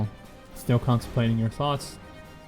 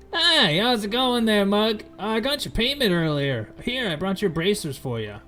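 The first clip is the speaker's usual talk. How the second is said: high, chipper trader voice; goofy merchant voice; 9 semitones higher, 5 dB louder than usual. Acted. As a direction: greet them like a shifty peddler. GM voices Fizban.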